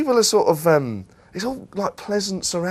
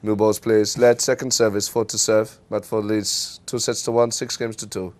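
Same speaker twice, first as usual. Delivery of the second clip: umpire call; 6 semitones lower, slower than usual. Retold or imitated. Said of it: "I would always do it in a foreign accent".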